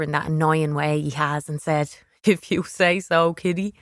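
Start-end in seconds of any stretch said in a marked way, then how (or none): 2.2-3.7 condescending. A narrator's reading. Brother humours his little sister, very condescending. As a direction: talk down to a little kid. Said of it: "in a very condescending way".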